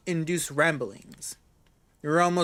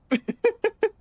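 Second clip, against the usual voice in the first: high embarrassed giggle; embarrassed laugh; 3 dB louder than usual. Real, not acted. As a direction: laugh it off awkwardly. Laugh after gross remark.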